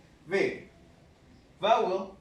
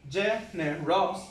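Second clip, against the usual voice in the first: slow syllable demo. Shown as a demonstration. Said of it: "three syllables".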